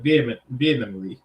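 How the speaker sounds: "vehement, vehemently" attempted haltingly, then given up on; struggled pronunciation. Real, not acted. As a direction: stumble into "vehemently", trying the word twice. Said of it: "I can't even say it".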